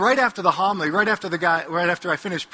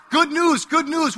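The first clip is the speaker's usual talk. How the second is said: herald's call; 6 semitones higher, slower than usual. Retold or imitated. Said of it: "what would the messengers say".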